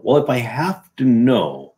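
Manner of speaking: "Well" drawn out and measured; slow, pointed restatement; slow deliberate repeat. Shown as a demonstration. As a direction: spell out the logic slowly. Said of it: "You have to know".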